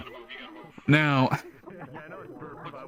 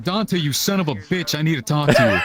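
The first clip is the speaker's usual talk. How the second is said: retold confrontation; 3 semitones higher than usual. Friend confronting Dante after waking him, mock shout. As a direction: bark it at him like a friend gone off the rails.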